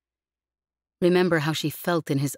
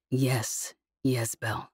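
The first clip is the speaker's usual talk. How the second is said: calm; 4 semitones lower, 4 dB quieter, much slower than usual. Acted. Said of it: "managed to keep his voice calm".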